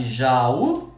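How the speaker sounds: "Jaú" em duas sílabas, ja e ú; hiato separado. Shown as a demonstration. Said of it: "separou vogal". ("Jaú" dito ja-ú, com "ú" tônico)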